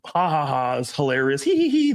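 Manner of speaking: a girl giggling at his fake jealousy; imitated giggle. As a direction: tease with a put-on little giggle. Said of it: "They'll giggle a little bit".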